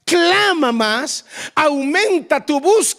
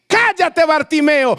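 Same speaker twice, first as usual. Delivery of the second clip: shouted higher and louder, telling him to shut up; crowd hushing him; 4 semitones higher, 4 dB louder than usual. Acted. The crowd shouting at Bartimeo to shut up, angry shout.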